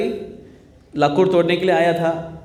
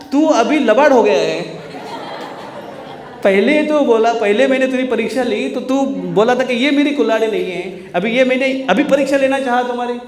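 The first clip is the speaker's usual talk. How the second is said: scolding goddess; 8 semitones higher, 3 dB louder than usual. Acted. Goddess scolds the lying woodcutter.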